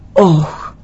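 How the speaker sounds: imitated echo of a cry; echo coming back. The mountains return the boy's cry, echo. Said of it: "ξαναεπιστρέφεται αυτό το".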